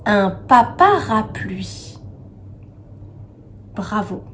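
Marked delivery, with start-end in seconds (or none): 0.1-2.0 slow parapluie with papa stressed; papa picked out. Shown as a demonstration. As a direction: draw out un papa parapluie so papa is heard. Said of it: "on entend".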